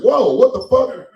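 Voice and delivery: loud, high, drawn-out disbelief; shocked outburst. Acted. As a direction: blurt it out in mock alarm. Acting shock at being choked.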